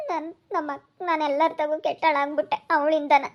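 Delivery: acted sobbing complaint; crying. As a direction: break off to sob between phrases. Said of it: "ಸುಮ್ನಿರು, ಅಳ್ಬೇಡ". (ಬಿಕ್ಕುತ್ತಾ ಅಳುವ ಧ್ವನಿ)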